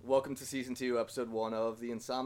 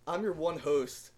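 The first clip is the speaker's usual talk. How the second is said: slow careful retry; 3 semitones higher, slower than usual. Shown as a demonstration. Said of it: "g-, host".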